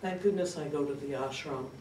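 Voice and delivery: lightly voiced, soft-spoken devoted daughter; devoted caregiver daughter. The speaker sharing with the support group about her mother, softly devoted.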